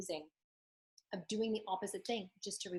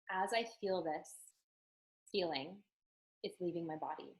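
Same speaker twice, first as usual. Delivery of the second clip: gentle mantra. Shown as a demonstration. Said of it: "So the mantra is".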